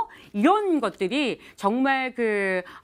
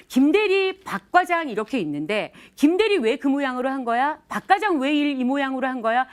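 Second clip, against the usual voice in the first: mock scolding. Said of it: "큰애를 꾸중을 할 때".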